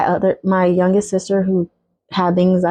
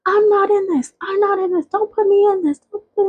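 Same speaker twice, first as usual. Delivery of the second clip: much higher, wailing pleading sister; mock crying sister; 13 semitones higher than usual. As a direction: wail it like a crying sister begging out.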